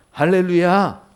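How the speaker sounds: congregational call-out. Real, not acted. Preacher prompting the congregation for an amen, loud call-out. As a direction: call it out for a response.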